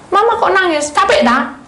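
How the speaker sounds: put-on high, loud little child's voice; a worried child asking mama; child worried to see mama crying; child asking mother.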